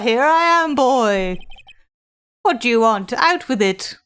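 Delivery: lightly voiced grand old gentleman; a hint of a self-important lawyer; pompous old lawyer. Old lawyer receiving a young visitor, lightly pompous.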